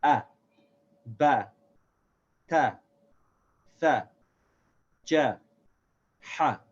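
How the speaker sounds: "A, ba, ta, tha, ja, ha", each with a thin, light short a; light fatha series. Shown as a demonstration. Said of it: "so we can see how this is light".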